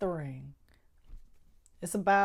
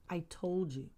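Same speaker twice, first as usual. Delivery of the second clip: told you again, dropped to a murmur; a soft, satisfied I told you; quiet told you; 3 semitones lower, 8 dB quieter than usual. Real, not acted. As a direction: let it fade into a soft murmur. Repeating I told you, fading.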